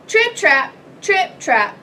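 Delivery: loud, punched hoof steps; big goat clomping, starting high; trip-trap hoof sounds. A narrator's reading. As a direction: stamp out each word like heavy hooves. Heavy hooves on the bridge.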